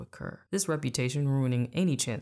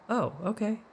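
disappointed; 9 semitones higher than usual. A narrator's reading. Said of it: "he replied, disappointed".

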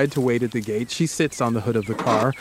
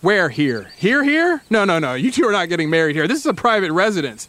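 talks tough; 3 semitones higher than usual. Retold or imitated. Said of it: "he talks tough".

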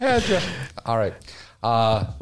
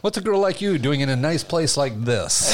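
sleazy pickup line. Pretend. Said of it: "That's my best sarcasm".

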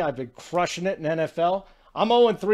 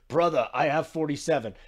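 lightly attempted accent impression; a little bit of a badly faked Jokic accent. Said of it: "giving you a little bit of the Jokic".

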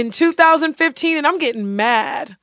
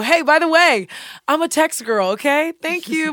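higher, chirpy boundary-setting; breezy announcement; 5 semitones higher than usual. Acted. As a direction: lay down the rule sweetly up front. Acting out announcing her boundary upfront.

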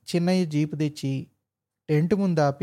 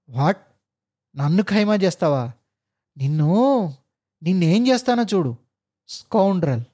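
raging threat. Acted. Officer rages and threatens driver. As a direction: rage like Narasimha. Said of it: "ఉగ్ర నరసింహుడిలా శివాలెత్తిపోతూ".

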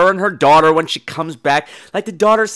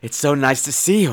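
soft, lowered greeting; tense fake welcome; 5 semitones lower, 5 dB quieter than usual. Daughter greets mother home, uneasily sweet. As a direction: welcome her in a subdued daughter voice. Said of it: "this weird tension".

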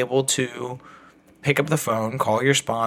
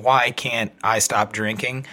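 reading a search query; 3 semitones lower than usual. Retold or imitated. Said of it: "we were Googling".

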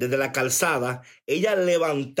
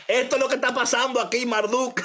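higher, faster words through laughter; amused teasing of a viewer; laughing while talking; 7 semitones higher than usual. Real, not acted. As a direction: talk through a real laugh. Laughing at viewer Marduk's comment.

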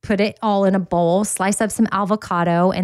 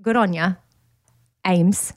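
light Australian accent. Shown as a demonstration. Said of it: "can you do an Australian accent?".

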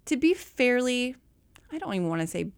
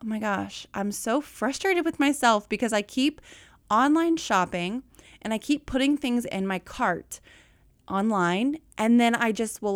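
frustrated client. Retold or imitated. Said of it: "she Voxed me and was just like".

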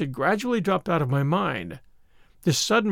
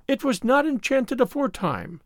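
musing to herself; 6 semitones higher than usual. A narrator's reading. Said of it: "she said in a musing fashion, as if to herself".

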